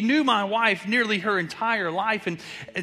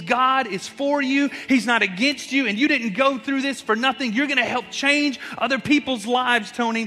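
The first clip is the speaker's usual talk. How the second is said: encouraging; 4 semitones higher than usual. Retold or imitated. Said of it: "She began to speak life into me".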